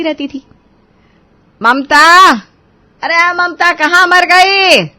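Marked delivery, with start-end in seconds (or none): 1.6-4.9 sharp high call across the house. Acted. Mother-in-law calling her lazy bahu, loud impatient call. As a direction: shout for Mamta, losing patience.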